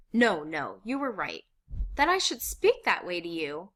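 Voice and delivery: loud distress climbing high; remorseful sobbing. A narrator's reading. Missus Frank to her guests, sobbing with remorse. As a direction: let remorse rise into a wail. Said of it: "loud sob, stricken with remorse".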